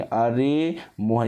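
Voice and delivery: अरे मोहन with रे held long; stretched distant call. Shown as a demonstration. Teacher telling students how to call, अरे मोहन lengthened. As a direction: draw out अरे मोहन without raising the voice. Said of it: "तो इसको बोलेंगे".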